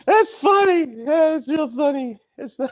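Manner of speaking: high, loud exclaiming through laughter; real amused outburst. Real, not acted. Host cracking up at free speech, high amused outburst. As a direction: burst out between big laughs.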